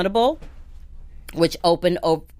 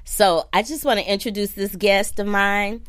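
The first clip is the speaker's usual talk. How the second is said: ordinary delivery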